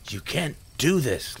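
high desperate yell. A narrator's reading. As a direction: cry out in protest. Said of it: "Little yelled out".

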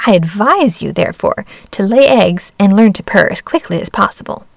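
indignant hen. Acted. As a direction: lecture like a bossy hen. Hen lectures duckling.

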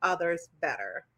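measured, deliberate read-out; reading aloud. Real, not acted. Host reading her own comment to guest, measured delivery.

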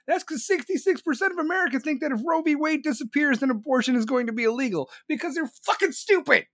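high-pitched, strained exasperation; worked-up, scornful high rant; exasperated rebuttal. Real, not acted.

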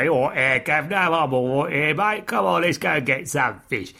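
mock Cockney market fishmonger; old London Cockney. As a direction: put on a matey London market-trader accent. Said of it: "the odd Londoner who has been working on the market stall".

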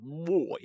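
put-on "Boy" said through hollowed cheeks; cheeks sucked in. Shown as a demonstration. Podcast host showing friends the trick, "Boy" with cheeks pulled in. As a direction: suck the cheeks in and round out "Boy". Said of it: "your cheeks have to go in almost like".

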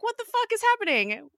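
high, loud disbelieving cry; a fan yelling at the screen in disbelief; incredulous outburst. Retold or imitated. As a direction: throw up your hands in shocked confusion. Baffled viewer reaction.

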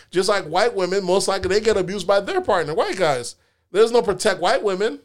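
heated rant. Real, not acted.

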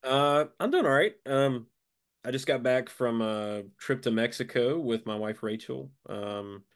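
congested, blocked-nose voice; snorkel. Real, not acted. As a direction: talk through a stuffed-up nose, sinuses full. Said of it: "I sound like I'm breathing through a snorkel".

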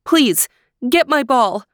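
high, eager princess voice; bright storybook princess pleading; theme park princess. Acted.

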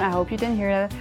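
ordinary delivery

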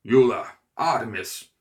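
loud, sharp call; calling the dogs. A narrator's reading. Cooper calling his two hounds, loud call. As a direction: summon the hounds across the room.

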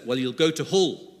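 imitated child's northern accent on Hull; touch of Yorkshire accent, making hell sound like Hull. Daughter answering her dad's question about Jesus, light northern accent. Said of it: "she was developing a northern accent".

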